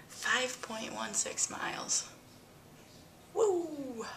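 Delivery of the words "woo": excited cheer. Real, not acted. Celebrating pedometer total.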